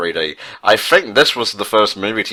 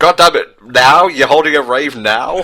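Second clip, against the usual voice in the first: mock outrage; 5 semitones higher, 4 dB louder than usual.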